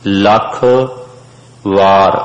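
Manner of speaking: ਲੱਖ with a doubled, held ਖ and a separate ਵਾਰ; correct pronunciation. Shown as a demonstration. The teacher corrects ਲਖ to ਲੱਖ for the class. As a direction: say ਲੱਖ ... ਵਾਰ slowly, word by word. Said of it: "ਲਖ ਵਾਰ ਨਹੀਂ ਪੜ੍ਹਨਾ".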